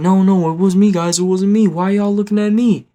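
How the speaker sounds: loud, high-pitched protest of innocence; acting dumb. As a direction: play the culprit loudly denying everything. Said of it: "Jaden tries to act dumb".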